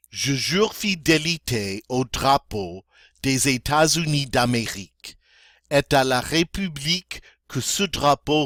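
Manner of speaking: normal speed. Shown as a demonstration. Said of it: "um, normal speed".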